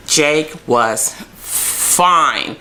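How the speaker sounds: very slow, drawn-out admiring sigh; swooning. Real, not acted. Fan swooning over a shirtless Jake, slow and drawn out. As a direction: savour each word about him.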